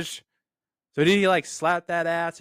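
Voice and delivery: high, very slow playful drawl; imitating Tej. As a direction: stretch it out like a teasing friend. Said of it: "this one from Tej".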